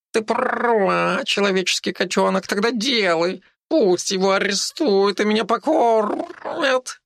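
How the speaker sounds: high, slow cheeky tomcat voice; a brazen cat giving orders. A narrator's reading. Cheeky tomcat tells the girl to act, high slow cat voice. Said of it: "заявил наглый котяра".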